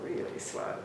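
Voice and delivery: drawn out and whispered; slow right down as a game; dragging, hushed and slow; really slow. Shown as a demonstration. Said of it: "I would literally go".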